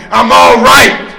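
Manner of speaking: breathy false reassurance; denial's voice. Retold or imitated. The disease telling him he is fine, a hushed false reassurance. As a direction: whisper the lie to yourself.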